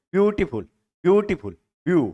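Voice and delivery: "ब्यूटीफुल" with weight on ब्यू; stress on first syllable. Shown as a demonstration. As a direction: lean on the opening ब्यू of "ब्यूटीफुल". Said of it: "पहले वाले पे stress लग रहा है".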